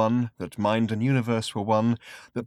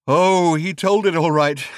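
high, louder, slow and savage; savagely; 6 semitones higher, 8 dB louder, slower than usual. Acted. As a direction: spit it out with savage bitterness. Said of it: "said the man savagely".

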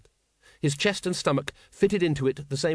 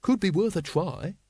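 earnest; 6 semitones higher than usual. A narrator's reading. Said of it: "said Once earnestly".

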